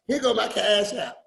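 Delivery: lightly voiced friend's quip; breezy mock offer; a hint of Miss Dyer's joking tone; imitating Miss Dyer. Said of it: "That's how she talked".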